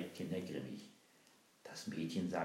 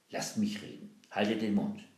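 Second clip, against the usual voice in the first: stern hush; 3 semitones higher, 8 dB louder than usual. Acted. Girl hushes the prince secretly.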